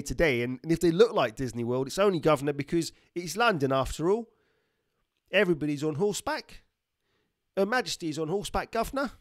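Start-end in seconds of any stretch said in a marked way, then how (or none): 1.9-9.1 playful Cockney put-on voice; Cockney accent. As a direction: lay on the chirpy Cockney for a joke. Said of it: "talking in a Cockney accent".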